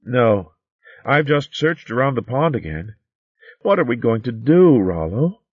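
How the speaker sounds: put-on a touch of worry, young voice; worried young maid.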